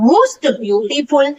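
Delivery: slow model phrase. Shown as a demonstration. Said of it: "use कर लेते हैं more और most".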